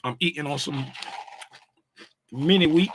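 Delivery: talking while crunching cereal. Real, not acted. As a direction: speak through a mouthful of crunch. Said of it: "Excuse my crunching".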